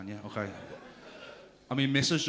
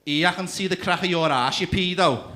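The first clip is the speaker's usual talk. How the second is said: loud, raised mock child's jeer; taunting kid; 5 semitones higher, 7 dB louder than usual. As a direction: heckle him like a cheeky ten-year-old. Imitates ten-year-old shouting taunt.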